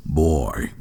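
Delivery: very low gaming tough-guy voice; Kratos. Pretend. Asked to voice act a game hero, deep role voice. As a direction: drop the pitch way down for one word. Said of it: "voice act Kratos going".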